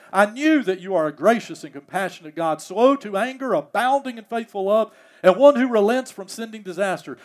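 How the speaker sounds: a prophet bitterly arguing with God; angry prayer. Acted. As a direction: read Jonah's complaint with rising heat. Jonah's furious prayer read aloud.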